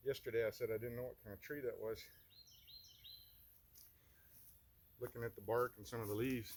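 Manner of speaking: winded, catching breath between words. Real, not acted. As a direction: talk while still puffing. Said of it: "Sorry, I'm out of breath".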